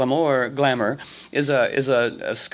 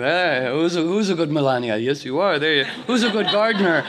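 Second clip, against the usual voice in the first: pet talk. Retold or imitated. Talking to a pet, baby talk.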